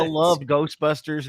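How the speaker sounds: slow, laughing admission. Real, not acted. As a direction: laugh it out, a bit sheepish. Laughing while admitting fandom.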